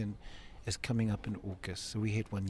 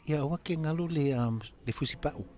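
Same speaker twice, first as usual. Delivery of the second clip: mother's voice; 6 semitones higher, 3 dB louder, faster than usual. Retold or imitated. Mother answers in Samoan.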